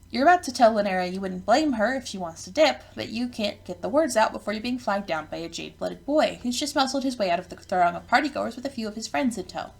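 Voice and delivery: animated game narration read aloud; story narration. A narrator's reading. Narrator welcomes the player to Ardata's party, animated storytelling.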